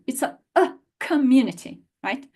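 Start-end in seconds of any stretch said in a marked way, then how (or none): 1.0-1.8 "community" as kuh-MYOO-nity, first vowel uh; schwa for O. Shown as a demonstration. Teacher corrects the O sound, "community" starting with uh. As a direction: open "community" on a reduced kuh. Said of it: "it's not an O sound".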